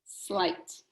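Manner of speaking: Slight whispered low; Slight breathed softly; whispered answer. Shown as a demonstration. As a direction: hush it out like a secret. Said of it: "What's the word?".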